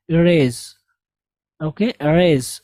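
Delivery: "erase" starting with a light ee; teacher showing the ee in "erase"; light ee sound. Shown as a demonstration. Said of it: "ई की आवाज़ निकालेंगे".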